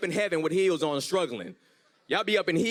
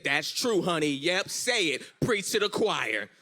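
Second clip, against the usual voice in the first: emphatic agreement; 2 semitones higher, 4 dB louder, slower than usual. Retold or imitated. Girlfriend cheering agreement, acted.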